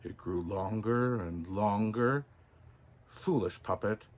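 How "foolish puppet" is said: softer, buzzing cricket voice; a soft cricket's buzzing reproach. Acted. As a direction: buzz it quietly in his ear. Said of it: "buzzed a voice".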